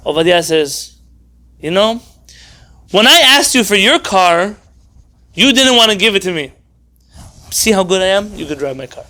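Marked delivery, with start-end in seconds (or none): 1.6-9.0 self-satisfied, holding a favour over him; smug generosity. Retold or imitated. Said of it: "The other one is".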